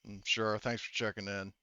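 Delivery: soft, half-hearted thanks; barely interested, mumbled thanks. Acted. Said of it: "half-heartedly".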